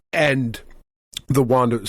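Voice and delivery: talking while choking on cider; words caught by a swallow gone wrong; choking on a drink. Real, not acted. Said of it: "sorry, I'm choking on my cider".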